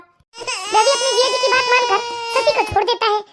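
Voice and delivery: slow, measured narrator; slow storytelling link between scenes; story narration. A narrator's reading. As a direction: narrate the scene change unhurriedly.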